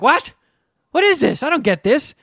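baffled high what; puzzled kid disbelief; confused. Retold or imitated. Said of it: "I was like".

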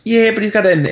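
high, hemming 'mm, yeah' of a mock office boss; Office Space boss. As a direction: lightly imitate a manager politely refusing to budge. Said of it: "an Office Space where he's like".

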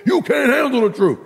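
high, emphatic movie outburst; movie line impression. Preacher quoting a movie to the congregation, mock outburst. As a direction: fire it off like a famous film quote. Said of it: "Remember that movie?".

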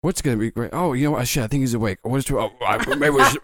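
gravel voice. Acted. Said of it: "we don't have to do the gravel voice".

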